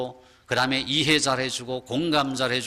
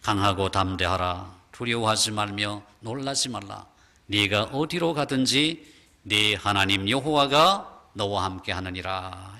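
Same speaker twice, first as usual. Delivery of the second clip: lower, slow and weighty charge; voice of God; 6 semitones lower than usual. Acted. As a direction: strengthen young Joshua as God. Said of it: "하나님께서 뭐라고 말씀하셔요". (낮고 무게 있는 하나님의 음성)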